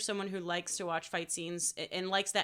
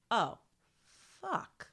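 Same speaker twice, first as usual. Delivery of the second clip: stunned realisation; 4 semitones higher than usual. Acted. Acting viewer's sinking realisation.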